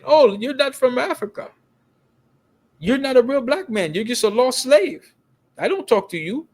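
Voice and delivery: scornful dismissal in an imitated African accent; African accent, dead serious. African woman refusing to talk to them, mimicked accent. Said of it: "But she had an accent".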